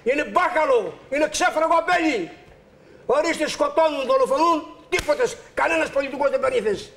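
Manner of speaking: impassioned, emphatic angry rant; real anger. Real, not acted. Aggrieved man railing at the state and police, angry. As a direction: hammer out each outraged phrase. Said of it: "Πάνω στην οργή σας τώρα".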